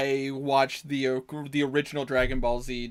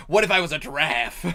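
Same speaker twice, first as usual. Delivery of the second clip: lightly voiced villain, louder, emphatic question; Frieza; 5 dB louder than usual. The speaker auditioning as the villain, emphatic absurd question. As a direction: announce the absurd idea with force. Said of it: "in his audition for T F S to play Frieza".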